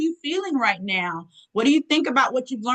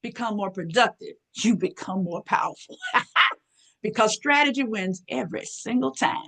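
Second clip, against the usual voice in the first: empowering hype. Shown as a demonstration. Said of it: "That's how I talk".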